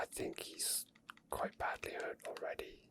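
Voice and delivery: ordinary talk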